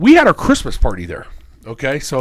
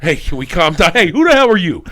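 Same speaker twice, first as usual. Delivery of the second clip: angry gambler snapping at the pit boss; mock argument; 2 semitones higher, 4 dB louder than usual.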